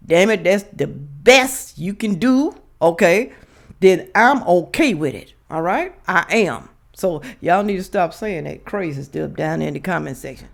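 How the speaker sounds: speaking without teeth in; lisping gums, no teeth; no dentures. Real, not acted. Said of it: "Yes, I forgot to put my teeth in".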